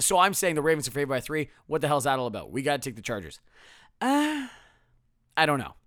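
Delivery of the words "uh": baffled groan. Real, not acted. Baffled by the betting line.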